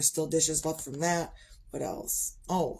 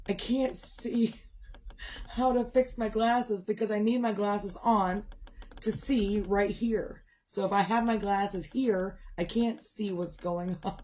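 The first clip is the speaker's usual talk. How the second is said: retold mild panic; 3 semitones higher than usual. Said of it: "I was freaking out".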